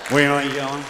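Rigsby voice. Acted. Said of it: "My name's Rigsby".

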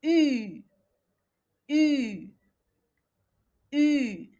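"U" as a drawn-out, falling French "ü"; practised French U. Shown as a demonstration. Teacher drilling a vowel needing practice, "U" as long "ü". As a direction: stretch "U" alone as a rounded ee. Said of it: "تحتاج مني بزاف".

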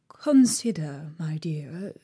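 hushed, slow and timid; timid whisper. A narrator's reading. King timidly urging the angry queen, hushed. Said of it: "timidly said".

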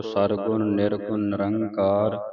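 slow, measured recitation of verse; scripture recitation. Shown as a demonstration. Teacher recites the shlok for the congregation, slow recitation. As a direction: recite slowly with long-held syllables.

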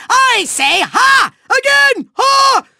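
high, loud mocking bursts; punched-out villainous derision; scornful scoff. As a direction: scoff theatrically at a rival. Villain scoffs at rival's plan.

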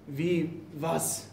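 cowed prisoner answering his captor softly; frightened murmur. Acted. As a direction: barely dare to speak.

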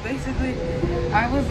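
breathless after rushing; panting between words; out of breath. Real, not acted. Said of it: "I'm out of breath".

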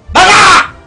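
loud high angry order; angry shout. Acted. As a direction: throw him out. Frustrated instructor orders out.

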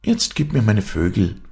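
put-on storybook child making a demand. A narrator's reading. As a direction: demand it back from mother. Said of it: "Dann forderte er".

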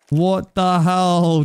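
slow, stunned disbelief. Real, not acted. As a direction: drag it out in shock. Stunned by big donation.

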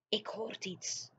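hush, listen, something's out there; whispering. Acted. Giant warning Sophie he heard something, slow whisper. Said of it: "fluisterde de G V R".

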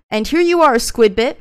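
high and loud showing it off; a big bright reveal to the camera; excited reveal. Real, not acted. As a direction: present it like a prize. Presenting the item to viewers.

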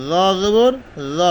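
র said with a soft, light tap; a soft র in the drill. Shown as a demonstration. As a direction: keep the র gentle. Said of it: "নরম করে".

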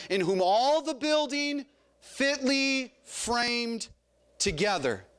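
very slow, word by word; spaced-out words, dropping on the last; leading group recitation. Shown as a demonstration. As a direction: lead the congregation through it in measured pieces. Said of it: "Would you say that with me".

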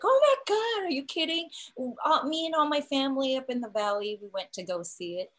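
high loud gush, easing off toward the end; retold amazed excitement. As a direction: imitate a fan's astonished outburst, then settle. Retold stylist's amazed reaction.

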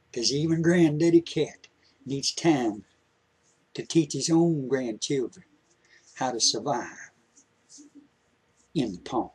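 lightly voiced old grandpa, patient and gentle; a hint of a country grandpa teaching his grandson; kindly grandpa. Storyteller plays grandpa at length.

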